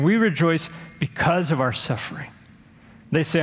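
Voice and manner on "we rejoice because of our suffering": "because" picked out firmly; stress on BECAUSE. Shown as a demonstration. Preacher quotes the self-sadistic person, stressing "because". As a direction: lean on "because" as the swapped-in word. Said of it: "instead of in our suffering".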